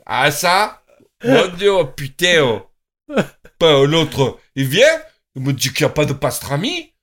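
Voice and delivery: blustering mock Marseille accent. Marseille local threatening whoever denies the pastrami, blustering Marseille accent. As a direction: grumble like an outraged Marseille local. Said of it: "à Marseille, on parle comme ça".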